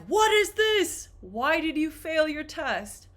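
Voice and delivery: put-on mother shouting at child over failed test; angry mom. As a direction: scold like a furious mother. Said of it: "She's like".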